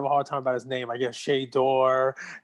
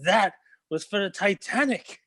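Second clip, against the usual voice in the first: higher-pitched comic payback; mock-defiant retort; 6 semitones higher than usual. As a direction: throw back the joke's accusation. Joke character justifies returned punch.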